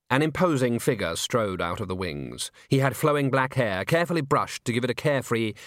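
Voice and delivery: ordinary delivery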